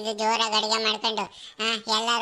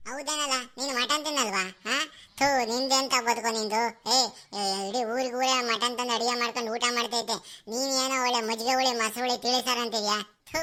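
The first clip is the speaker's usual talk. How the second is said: disgusted scorn. Acted. Friend mocks vegetarian food.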